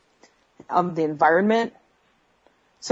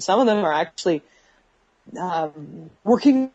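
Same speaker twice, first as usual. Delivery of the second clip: bad connection. Real, not acted. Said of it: "breaking up on us".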